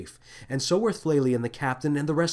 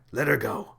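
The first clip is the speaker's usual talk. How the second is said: whispered. Acted. Captain releasing Lily, unvoiced.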